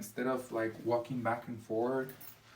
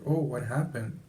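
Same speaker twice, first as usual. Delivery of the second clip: calm question; 4 dB louder than usual. Shown as a demonstration. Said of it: "in a more calm manner".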